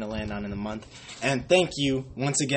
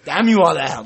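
much louder hammed-up curse; mock damning; 3 semitones higher, 12 dB louder than usual. Fan cursing the Lions hater, hammed-up shout. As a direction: bellow the curse like a movie villain.

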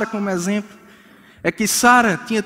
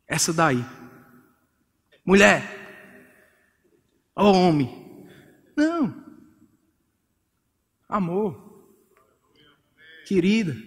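tender words; 3 semitones lower, 4 dB quieter, slower than usual. Shown as a demonstration. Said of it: "a forma mais romântica e carinhosa".

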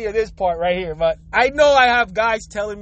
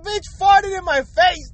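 mock outraged complaint; 6 semitones higher, slower than usual. Voicing the angry friend.

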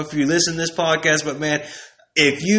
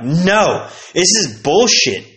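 protesting; 5 semitones higher, 4 dB louder, slower than usual. Retold or imitated. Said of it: "Justin would be like".

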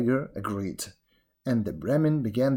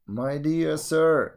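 slow, higher-pitched address; haughty road; 4 semitones higher, much slower than usual. Acted. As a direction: draw it out as the road.

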